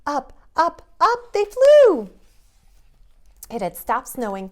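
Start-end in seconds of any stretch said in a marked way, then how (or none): 0.1-2.1 climbing much higher and louder; the sleigh soaring up, thrilling; rising excitement. A narrator's reading. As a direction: soar upward with the voice. Lifting off.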